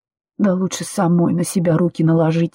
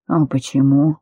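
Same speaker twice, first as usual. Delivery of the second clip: low mocking man; 4 semitones lower than usual.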